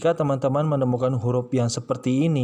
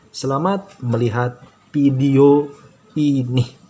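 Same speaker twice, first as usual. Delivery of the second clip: cheerful invitation; 6 dB louder than usual. Real, not acted. Host inviting viewers to watch.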